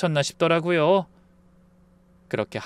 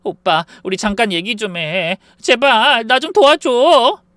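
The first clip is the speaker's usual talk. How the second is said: tearful pleading; 6 semitones higher, 6 dB louder, slower than usual. A narrator's reading. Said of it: "눈물을 펑펑 쏟으며 매달렸습니다".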